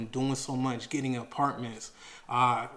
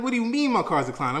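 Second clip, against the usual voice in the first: higher, fast, indignant disbelief; defensive; 9 semitones higher, 3 dB louder, faster than usual. Retold or imitated. Defensive disbelief at the clerk who said the card declined. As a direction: push back hard, offended. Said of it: "I'm getting, like, super defensive".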